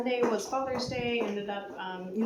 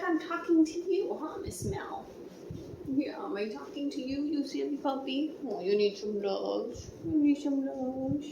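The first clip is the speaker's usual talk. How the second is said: talking to a dog; 4 semitones higher than usual. Real, not acted. Talking to puppy Mel.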